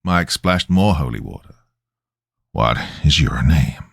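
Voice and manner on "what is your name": low, measured question; steady, controlled exorcist; calm repeated demand. A narrator's reading. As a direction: ask evenly, pitched low. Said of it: "he asked calmly".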